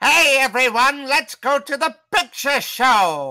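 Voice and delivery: put-on terrible, very high, very loud, really old voice. Asked whether you have one, do a terrible, really old-sounding Alistair impression. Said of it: "You sound like you're really, really old".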